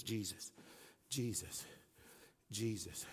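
very soft, low retold murmur; hushed reverence. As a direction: repeat it quietly to yourself, with pauses. Retells repeating the name in prayer.

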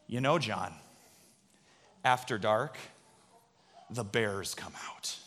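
scare the little brother with a hush; spooky hush. Retold or imitated. Big brother in the tent, teasing little John, low spooky hush.

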